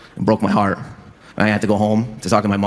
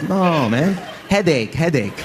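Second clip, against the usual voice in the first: dad's voice; 7 semitones higher, slower than usual. Retold or imitated. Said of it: "He goes".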